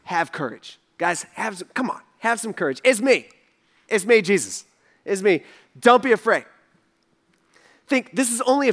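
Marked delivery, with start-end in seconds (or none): 0.0-6.5 gentle reassurance. Retold or imitated. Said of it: "Jesus says".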